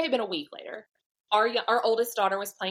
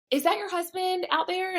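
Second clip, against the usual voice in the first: much higher, inquisitive mom voice; imitated curious mom; 10 semitones higher than usual. Mom asks about husband on the field, high and curious. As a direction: voice another mom asking, pitched up.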